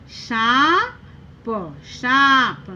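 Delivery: सांप sounded out slowly with nasal "aan"; nasal pronunciation. Shown as a demonstration. Teacher blending the word with chandrabindu, सांप slow and nasal. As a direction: hold the vowel of सांप in the nose, then add "p". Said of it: "तभी हमारा उच्चारण होगा".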